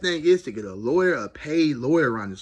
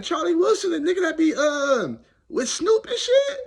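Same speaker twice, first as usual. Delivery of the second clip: stunned disbelief; 5 dB louder than usual. Retold or imitated. Stunned recognition of celebrity.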